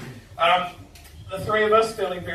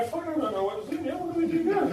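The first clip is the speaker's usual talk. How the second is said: higher, fast, flustered panic; mock-panic of drunk lads caught out; panicked students; 10 semitones higher, faster than usual. Students holding the stolen table, asking each other in higher, hurried panic. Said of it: "looking at each other and go".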